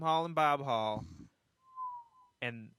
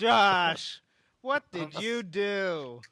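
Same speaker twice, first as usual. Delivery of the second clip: mock scolding parent; 5 semitones higher, 5 dB louder, much slower than usual. Scolding Josh for mock accident.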